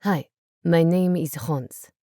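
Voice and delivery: slow, hammed-up German accent in English; a deliberately bad German accent. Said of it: "said in German accented English".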